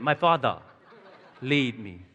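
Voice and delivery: lightly put-on British accent; playful imitation of a British accent. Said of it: "You know, with a British accent".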